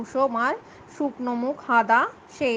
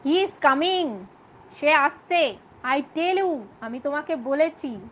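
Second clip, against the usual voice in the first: shouting; 2 semitones higher, slower than usual. Acted. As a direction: bark it back impatiently. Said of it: "চিৎকার করে বলছে".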